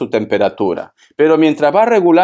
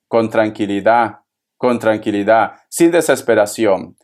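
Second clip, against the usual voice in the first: lower, measured calming tone; calm reassurance; 6 semitones lower than usual. Real, not acted. Advisor calming a distressed Virgo, calm reassurance. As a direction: soothe them with a low, settled voice.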